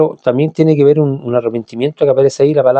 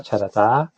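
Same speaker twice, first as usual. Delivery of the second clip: "sharatá" said softer and lower, stressed on the last A; stress on final A; 4 semitones lower, 5 dB quieter, slower than usual. Shown as a demonstration. Teacher repeats the Hebrew word "sharatá", softly stressing final A. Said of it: "con acento en la A".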